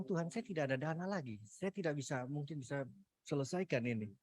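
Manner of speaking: high, soft, near-tearful pleading; pleading to God through held-back tears; tearful plea. Retold or imitated. Retelling his prayer to God, high and tearful.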